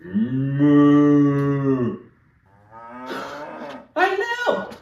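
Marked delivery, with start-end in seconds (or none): 0.0-2.0 a friendly moo to a cow; mock cow moo. Teacher speaking cow to a friendly cow. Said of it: "we should speak vaca to it".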